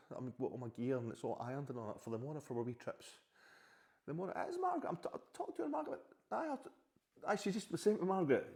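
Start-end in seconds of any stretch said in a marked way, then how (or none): 4.1-8.5 calling back. Real, not acted. Answering partner off-camera.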